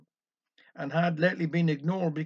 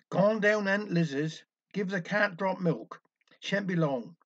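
reading a note. Retold or imitated. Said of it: "read to the audience".

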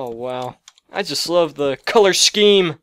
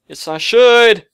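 loud gung-ho soldier; 3 semitones higher, 6 dB louder than usual. Pretend. Self-pep talk, resolute answer.

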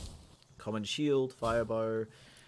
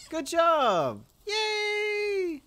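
cutesy praise; 7 dB louder, much slower than usual. Real, not acted. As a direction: cheer them on like pets. Praising the working pals.

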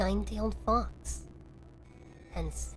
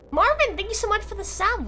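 high cutesy voice; 9 semitones higher, 4 dB louder than usual. Shown as a demonstration. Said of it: "I was meant to speak more like this today".

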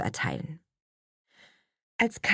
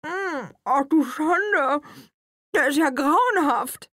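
high, drawn-out disgust; disgusted Nele; 11 semitones higher, 4 dB louder, slower than usual. A narrator's reading. Nele tasting the sugarless cake, high and disgusted. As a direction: pull a face and say it high.

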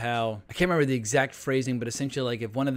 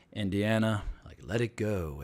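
softer, low, calm fatherly plea; gently lowered voice, retelling a calm line; calm quote; 4 semitones lower, 4 dB quieter than usual. Retold or imitated. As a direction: say it quietly and calmly, as an imitated father. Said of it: "his father very calmly says".

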